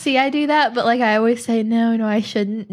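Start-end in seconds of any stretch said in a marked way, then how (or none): 1.6-2.7 slow, put-on hesitation; fake reluctance. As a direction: protest slowly, not meaning it. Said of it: "knowing that I'm going to".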